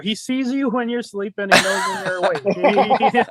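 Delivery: slow, spooky sing-song; drawn-out menacing lullaby; ominous Santa song quote. Pretend.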